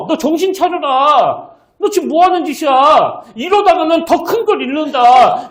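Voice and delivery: stern scolding. Acted. Imagined mentor to a singer heading into ruin, stern scolding. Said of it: "막 야단치면서".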